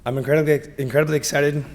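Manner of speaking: hoarse, strained voice; pushing through a voice that is going; losing voice. Real, not acted. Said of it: "Sorry, I'm losing my voice".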